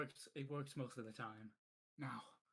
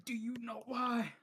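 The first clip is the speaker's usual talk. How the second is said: higher, louder and slow, WHY leaned on; demanding shout; 10 semitones higher, 8 dB louder, slower than usual. Acted. Repeating the question at Nas, a slow loud demand. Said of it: "I said".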